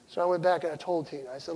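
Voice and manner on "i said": usual speaking voice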